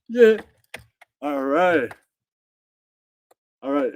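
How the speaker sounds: ordinary talk, nothing marked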